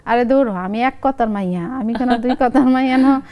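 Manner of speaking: insistent mother in Lakshmipur dialect. Shown as a demonstration. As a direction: brush the son off in a Lakshmipur regional accent. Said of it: "আর আমি আঞ্চলিক ভাষায় বলি". (লক্ষ্মীপুরের আঞ্চলিক টানে মায়ের জেদি জবাব)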